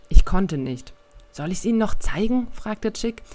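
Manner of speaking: reading a youth novel aloud, lively; audiobook-style storytelling; story narration. A narrator's reading. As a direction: tell the scene like an audiobook reader. Reads a novel excerpt aloud.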